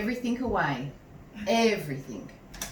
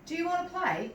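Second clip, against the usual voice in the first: put-on high, eager child question; lightly voiced boy asking to play; Jack's voice; 11 semitones higher, faster than usual. A narrator's reading. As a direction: Jack asking Sad to play. Jack invites dog.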